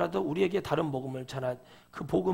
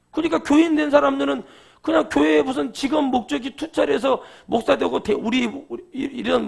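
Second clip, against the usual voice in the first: higher and louder, driving the point; preaching loud; 8 semitones higher, 7 dB louder than usual. Real, not acted. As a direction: preach it out hard. Preaching at full force.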